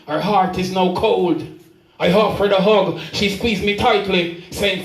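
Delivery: rhythmic recital of a dramatic dialogue; spoken-word poem. Acted. Poet retelling a hurt woman's confession, spoken-word recital. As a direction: carry the verse along in steady rhythm.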